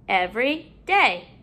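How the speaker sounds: "every day" in two separate parts; parts apart. Shown as a demonstration. Teacher putting a new syllable in, parts apart. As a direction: pause between "every" and "day". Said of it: "putting a new syllable in".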